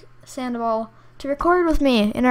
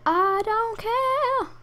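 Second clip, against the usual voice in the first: dismissive; 11 semitones higher, much slower than usual. Acted. Dismissive singsong.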